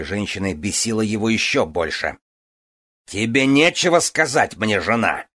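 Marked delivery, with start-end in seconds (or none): 3.1-5.3 roaring. A narrator's reading. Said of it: "взревел он".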